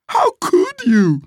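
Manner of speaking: slow, very high wail of reproach; outraged shout. A narrator's reading. Missus scolds Gladys before the guests, shouting. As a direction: draw it out high, like a spoiled child. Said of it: "she shouted".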